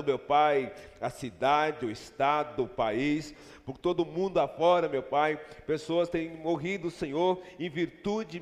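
earnest, steady prayer voice. Acted. Pastor praying with church for grieving families, earnest. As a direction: pray over the families, measured and sincere.

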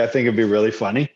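choppy, freezing call audio; words cutting out on a bad connection; buffering stutter. Real, not acted. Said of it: "you froze for a second there".

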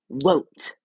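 put-on loud bratty child yell; shouted refusal. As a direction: shout it like a spoiled kid. Dudley's tantrum word.

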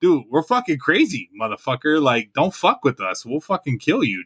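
mildly heated, emphatic threat; a touch of swaggering menace; retold warning. Soldier warning Iraqi sergeant not to mess, retold threat.

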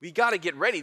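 mildly excited urging; a touch of eager excitement, urging the crowd; excited John the Baptist. Acted. Preacher voicing John telling the people to prepare, mildly excited. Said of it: "John's excited to tell them".

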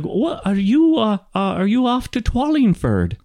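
high, stumbling gnome voice; senile old gnome. Acted. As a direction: ask hesitantly, pitched high as the gnome. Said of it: "and he's like".

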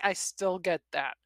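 ordinary delivery, nothing marked

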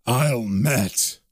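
low demon voice. Acted. Demon announces itself on arrival.

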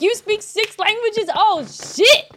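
high, loud awestruck outburst; amazed. Acted. Podcaster awed by a polyglot, amazed. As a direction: gush at an impressive skill. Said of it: "I'm surprised if anybody can".

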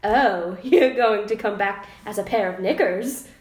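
mock posh British, laughing through; British accent. Shown as a demonstration. Reading Charles's reply aloud, laughing, mock posh British. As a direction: keep the put-on British voice going. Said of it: "should I read it in an accent".

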